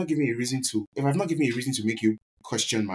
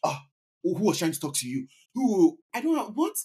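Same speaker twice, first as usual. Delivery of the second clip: mock jealous outburst; 7 semitones higher than usual. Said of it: "jumping and saying".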